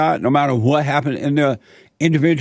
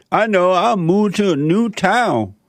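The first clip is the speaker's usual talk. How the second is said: higher-pitched imitation of sudden hope; mock bright idea; 5 semitones higher than usual. Unhappy person planning to move away, mock hopeful. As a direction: act out landing on the next easy fix. Voicing someone's next imagined fix.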